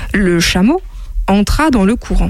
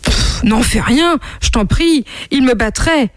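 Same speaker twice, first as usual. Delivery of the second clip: pleading; 4 semitones higher than usual. Acted. Camel pleads with the monkey.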